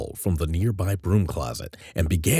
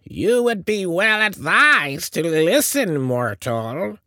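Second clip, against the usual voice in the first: high, ominous witch's warning; foreboding; 12 semitones higher, 3 dB louder, slower than usual. A narrator's reading. Witch queen looking directly at Joel, foreboding. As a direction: intone a warning to a lowly human. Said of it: "intoned in a richly foreboding voice".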